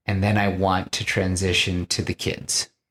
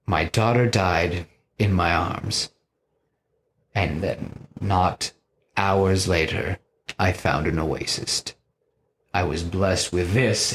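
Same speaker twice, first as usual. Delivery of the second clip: slow, understated grief in character; acted sombre recollection; 2 semitones lower than usual. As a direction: draw it out with pauses, lightly mournful. Voicing Gorr recounting his daughter's death.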